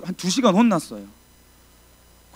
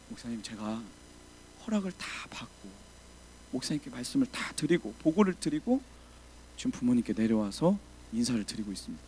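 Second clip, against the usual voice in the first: timid reply; 4 semitones lower, 8 dB quieter than usual. Retold or imitated. Timid answer to scolding pastor.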